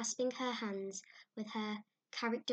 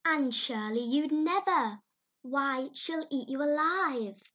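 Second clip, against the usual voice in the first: put-on young girl horrified; aghast; 5 semitones higher, 8 dB louder than usual. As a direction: gasp out disbelief. Diana aghast at Anne's plan.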